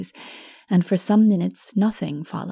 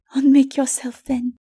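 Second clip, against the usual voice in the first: raised, calm challenge; calm Mara; 7 semitones higher, 5 dB louder than usual. A narrator's reading. Mara calmly challenges Lilith to unmake herself. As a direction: answer her coolly.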